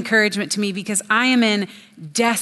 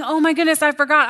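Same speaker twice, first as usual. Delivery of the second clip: realizing surprise; 6 semitones higher, faster than usual. Retold or imitated. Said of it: "instead of going".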